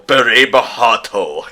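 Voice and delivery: Berebahato said slowly, syllable by syllable, in Japanese sounds: be-re-ba-ha-to; Japanese pronunciation. Shown as a demonstration. Giving the Japanese name of Riku's Keyblade, Berebahato said slowly in Japanese. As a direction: sound out Berebahato carefully the Japanese way, slow and even. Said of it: "in, uh, Japanese".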